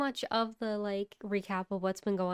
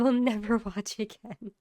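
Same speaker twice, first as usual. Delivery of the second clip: laughing; 3 semitones higher, 5 dB louder than usual. Real, not acted. Laughing about bad movie.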